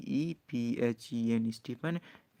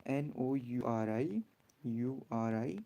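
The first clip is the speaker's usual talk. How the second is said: slow spelling for the class to repeat; call-and-repeat spelling; spell along; 4 dB quieter, much slower than usual. Shown as a demonstration. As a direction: spell so they can repeat after. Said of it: "मेरे साथ बोलो क्या?".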